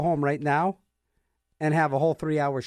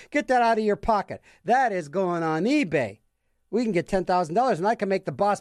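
narc employee; 4 semitones higher than usual. Retold or imitated. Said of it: "voiced narc employee".

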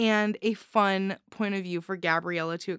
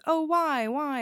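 higher-pitched, mock-pondering why; mock musing; 6 semitones higher than usual. Host puzzling over an irrational snake fear, mock musing. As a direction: play at wondering aloud, pitched up. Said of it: "I can sit there and I can muse".

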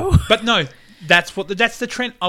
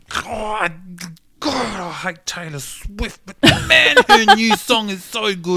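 mock grudging rant; 2 semitones higher, 3 dB louder, slower than usual. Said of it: "she'd be so mad".

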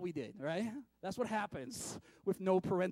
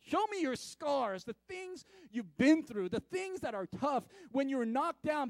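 louder, higher and slow, demanding; world's voice; 8 semitones higher, 5 dB louder than usual. Acted. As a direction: challenge them to show their scars. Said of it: "And the world is saying".

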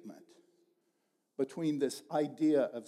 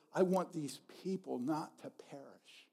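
a soft whisper; 3 semitones lower, 8 dB quieter than usual. Retold or imitated. God's tender wish said as a soft whisper. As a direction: breathe it, tender and unvoiced.

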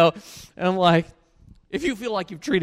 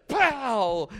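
slap sound effect; 6 semitones higher than usual. Retold or imitated. Imitating the slap landing.

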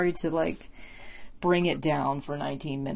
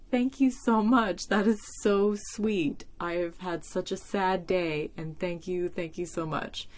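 retold tearful thanks; 3 semitones higher, slower than usual. Thanking the cashier while starting to cry, tearful. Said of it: "I started crying".

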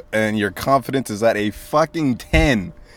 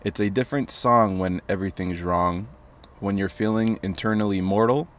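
steady, softer poem recital; poem reading; 4 dB quieter than usual. Acted. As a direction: read the verse plainly and calmly. Reads poem aloud.

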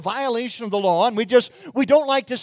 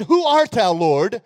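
Paul's awed question; 4 dB louder, slower than usual. Retold or imitated. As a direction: ask in awe. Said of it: "and I said".

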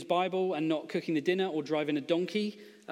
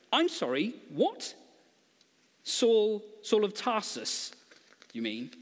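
can't believe what he just heard; shocked disbelief; 4 semitones higher, slower than usual. Acted. Needle scratch, shocked at Saul's name.

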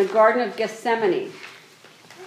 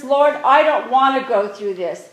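louder, earnest plea to the Lord; pleading prayer; 5 dB louder than usual. Retold or imitated. Jesus voiced pleading with the Father in prayer, louder. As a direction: beg the Father to spare you. Voicing Jesus praying in Gethsemane.

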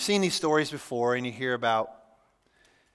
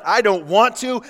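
put-on whiny child; 6 semitones higher, 5 dB louder than usual. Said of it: "maybe like a little child".

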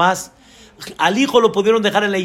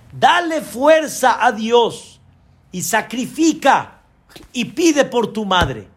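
slow, sincere urging from the heart; heartfelt plea; 2 semitones higher, slower than usual. Retold or imitated. Rebbetzin urges the bride to honor her mother, slow heartfelt plea. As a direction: plead gently and earnestly, slowly. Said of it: "muy de corazón".

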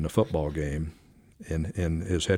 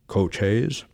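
a hint of a deepened presidential voice; mild mock-presidential query; Nixon impression. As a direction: lightly put on the president's grave phone voice. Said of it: "my finest Nixon impression I could".

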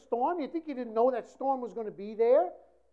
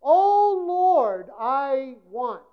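mock pleading prayer; 6 dB louder, much slower than usual. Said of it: "your prayers are informing God".

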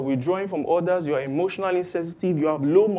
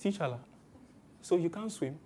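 mocking onlookers; 9 dB quieter than usual. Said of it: "imagine all the people coming to look and saying".

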